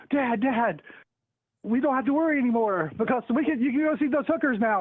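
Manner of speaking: put-on deadpan innocent kid for the joke; little kid voice. Joke version of kid line.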